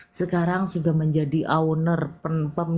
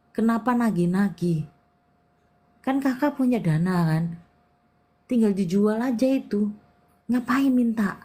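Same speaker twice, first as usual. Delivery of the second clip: lightly higher, whiny pleading relative; mocking relative; 4 semitones higher than usual. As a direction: mimic a pushy relative dodging a debt, a bit higher. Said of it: "dia bilang gini". (meniru saudara yang merengek ngeles soal utang, sedikit lebih tinggi)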